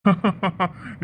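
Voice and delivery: short teasing laugh; amused laugh. Acted. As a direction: laugh at the friend's trouble. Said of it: "சிரிச்சிட்டு இருக்கீங்க".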